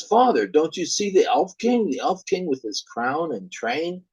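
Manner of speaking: put-on a scared boy calling to his father; lightly voiced scared son; frightened child. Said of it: "The son says".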